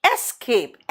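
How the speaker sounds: "एस्केप" opening on an open "es"; escape with E. Shown as a demonstration. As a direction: say "एस्केप" with a clear initial "ess".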